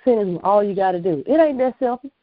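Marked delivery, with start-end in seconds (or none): 0.4-1.2 mocking phrase. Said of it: "don't ever start a sentence with".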